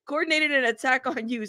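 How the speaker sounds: reading a message through real laughter; laughing. Real, not acted. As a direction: laugh your way into the words. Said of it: "I'm laughing and I'm not laughing".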